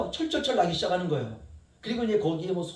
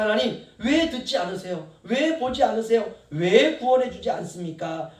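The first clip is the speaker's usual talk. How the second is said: complaining question; 2 semitones higher, 4 dB louder than usual. Acted. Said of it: "라고 이렇게 묻고 있습니다".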